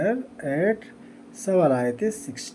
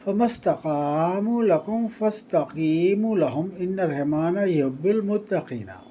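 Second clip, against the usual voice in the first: Quran recitation; 3 semitones higher than usual. Shown as a demonstration. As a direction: intone each phrase with a drawn, sung cadence. Teacher recites Quranic verses.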